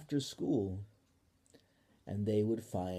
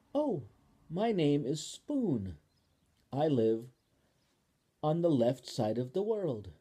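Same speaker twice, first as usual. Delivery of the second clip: Spoon, friendly; 3 semitones higher, 4 dB louder than usual. Acted. Spoon tells Ball where she lives, sweet and high. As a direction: introduce yourself kindly.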